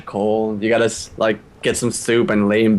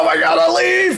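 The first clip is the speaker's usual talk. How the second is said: mock excitement. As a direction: gasp over a leaf as if it's a miracle. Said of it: "They're like".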